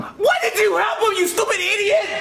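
high, indignant outburst; angry scolding. Acted. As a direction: scold him in exasperation. Scolding the son.

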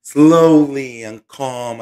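drawn-out, very slow delivery; slow and calm. Shown as a demonstration. Host explains to viewers how they must speak, slowly and calmly. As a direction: stretch the words out slowly and calmly. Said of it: "I have to speak, like, slowly".

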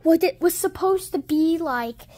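rising to a high, loud wail; frustrated crying shout. Acted. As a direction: wail that the plan failed. Villain's plan ruined.

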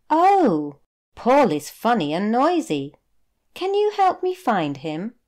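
put-on a small boy begging for help; eager little boy.

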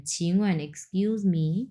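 slow, soft model of ছিংওয়েন, এক্সকিউজ মি; teacher models a polite opener; polite demo phrase. Shown as a demonstration. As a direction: ease gently into the request, slowly. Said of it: "তার আগে এই কথাটা বলে নেবেন".

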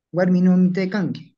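"Guarminó" with stressed, held final o; long O variant. Shown as a demonstration. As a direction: lean on the end of "Guarminó". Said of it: "Todas esas pronunciaciones".

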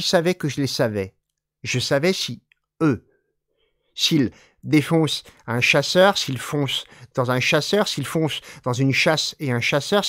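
even, measured recitation of the French poem; poem reading. Acted. Teacher reading a Stein poem in French, measured recitation. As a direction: let the repetitions roll on.

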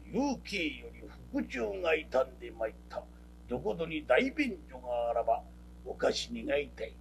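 low, formal samurai-style speech; pompous storyteller. Retold or imitated. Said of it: "後藤一山ちゅう講釈師や". (低く気取った講釈師の口調)

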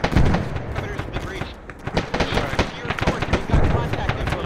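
high, loud alarm call; urgent callout. Acted. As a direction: shout the contact report. Contact report under fire.

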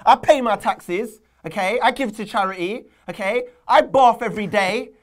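mock outraged list of good deeds; mock indignant rant. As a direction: plead your case to the football gods. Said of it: "I haven't done this in a while".

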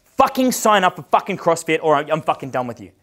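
forceful, sweary ultimatum; mild retold scream. Coach ordering a client to CrossFit, mildly yelled. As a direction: retell yourself having a go at him. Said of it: "I fucking screamed at this guy".

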